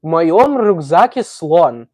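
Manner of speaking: reading "В моём рюкзаке слон." slowly, sounding out each Russian word; slow careful Russian. Shown as a demonstration. Asked by chat to read Russian, slow careful reading. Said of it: "Can you read this?".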